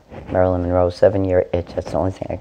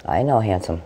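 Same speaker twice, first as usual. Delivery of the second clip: usual speaking voice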